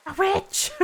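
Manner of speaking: high, loud gleeful exclamation; squealed in excitement at the reveal; excited outburst. Real, not acted.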